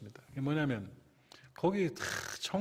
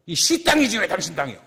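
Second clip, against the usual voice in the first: louder, mocking imitation of an angry man; angry retort; 4 semitones higher, 9 dB louder than usual. Pastor imitating the junk dealer snapping at him, mild mock anger. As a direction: throw it back like a gruff neighbour. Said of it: "부르륵 화를 내는 거예요".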